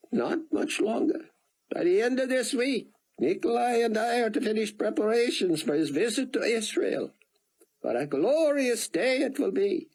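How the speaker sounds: put-on high, eager old man with an Israeli accent; thick Israeli accent. Rosenzweig welcoming Buck to the yacht club, eager thick Israeli accent. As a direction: fuss over your guest in a thick Israeli accent. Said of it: "in his thick accent".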